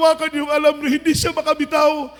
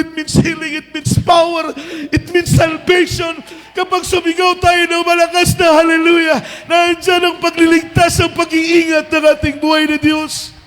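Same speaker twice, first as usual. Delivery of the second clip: preaching. Real, not acted. Preaching on hallelujah.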